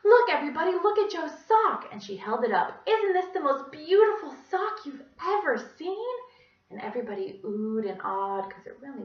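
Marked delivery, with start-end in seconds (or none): 0.0-1.9 gushing. A narrator's reading. Teacher showing the class a sock, gushing loudly. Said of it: "she gushed". 2.9-6.1 high, loud, near tears; tearful gush. A narrator's reading. Teacher praising a sock, voice breaking into tears. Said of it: "she started to sob".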